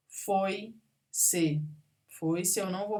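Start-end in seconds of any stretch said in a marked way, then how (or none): 0.1-1.6 "Foi-se" as foi, pause, se; syllable by syllable. Shown as a demonstration. Teacher explaining a diphthong, syllable by syllable. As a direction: keep "oi" together in "Foi-se", then pause before "se". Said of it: "é um ditongo".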